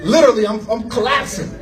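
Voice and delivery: can barely get the words out for laughing; laughing helplessly. Real, not acted. Telling how he collapsed on the stranger, laughing helplessly.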